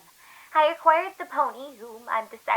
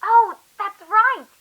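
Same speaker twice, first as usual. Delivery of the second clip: mock sympathy; 6 semitones higher, 6 dB louder, slower than usual. Captor mocking the victim.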